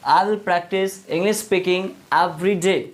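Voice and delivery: very slow, deliberate English; drawn out for learners; slow model sentence. Shown as a demonstration. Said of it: "तो मैं क्या बोलूँगा?".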